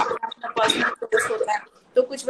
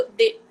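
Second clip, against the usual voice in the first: "दे" given high and loud as a cue; first-sound prompt; 10 semitones higher, 4 dB louder than usual. Shown as a demonstration. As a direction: cue the child with a bright, high "दे". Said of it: "prompt दे दो".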